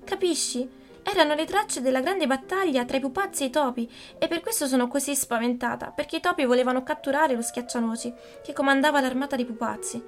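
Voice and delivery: put-on high, eager childlike pleading; urgent pleading. Marie interrupting her mother, high agitated pleading. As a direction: rush to explain the battle to mother. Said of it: "la interruppe Marie".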